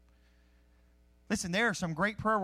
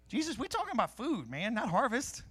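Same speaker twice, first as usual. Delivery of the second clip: higher, hammed-up complaint to Jesus; mock exasperated disciples; 4 semitones higher than usual. Disciples complain to Jesus about food, mock exasperated. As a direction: whine it like hungry friends.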